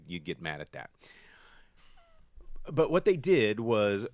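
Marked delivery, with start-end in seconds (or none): 0.1-0.9 teasing little whisper. Real, not acted. Whispering a tease to the co-host, hushed. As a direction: breathe it as a conspiratorial aside.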